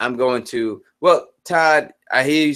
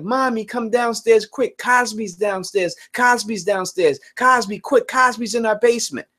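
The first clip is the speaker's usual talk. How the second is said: put-on little girl calling mom; 5 semitones higher than usual. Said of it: "my daughter just ran upstairs and was like".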